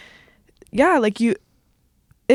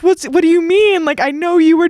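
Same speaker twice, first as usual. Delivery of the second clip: higher, louder confused protest; gaslit disbelief; 6 semitones higher, 4 dB louder than usual. Retold or imitated. Describing being gaslit by a man, higher baffled protest. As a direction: push back, baffled and rattled. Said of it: "you're like".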